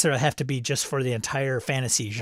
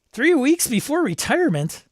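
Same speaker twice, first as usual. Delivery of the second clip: dramatic trope read; 12 semitones higher, 4 dB louder than usual. Acted. Reading a viewer's trope with gusto.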